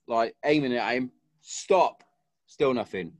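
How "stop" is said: shouted warning. Retold or imitated. Third command, pistol aimed.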